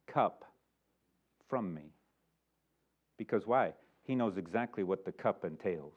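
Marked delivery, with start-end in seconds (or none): 0.0-1.9 much softer, lower prayer; a pleading hushed prayer; Jesus praying. Retold or imitated. Jesus praying in Gethsemane, soft and low. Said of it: "and saying".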